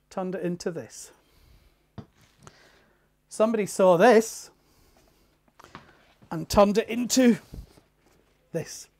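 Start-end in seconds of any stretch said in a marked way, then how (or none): 3.3-8.9 louder, emphatic repeat. Shown as a demonstration. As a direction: say it again with force.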